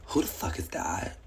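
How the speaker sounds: hushed, breathy whisper. Retold or imitated. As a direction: whisper it like a secret. Girl's message voiced as a whisper.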